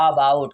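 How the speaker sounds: drawn-out AA opening on "about"; wrong long-aa version. Shown as a demonstration. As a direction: stretch "about" into a slow aa-bout. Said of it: "बड़े आ के साथ तो नहीं". ("about" की शुरुआत खिंचे हुए आ से)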